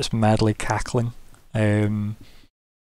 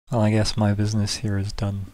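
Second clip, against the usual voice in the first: smirking governor. Acted. Governor offers aid for the breach, measured and slow. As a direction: speak as a ruler concluding business, unhurried. Game master voices the governor.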